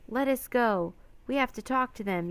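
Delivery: struggling yell. A narrator's reading. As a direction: yell while fighting to get free. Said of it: "yelled Annie, kicking and flailing".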